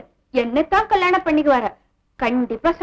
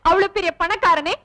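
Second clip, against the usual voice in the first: fake tearful pleading. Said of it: "பிரமாதண்டி உன் நடிப்பு".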